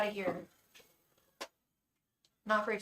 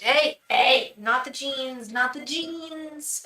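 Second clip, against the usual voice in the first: scolding; 3 semitones higher, 7 dB louder, much slower than usual. Real, not acted. Scolding cat scratching her jeans.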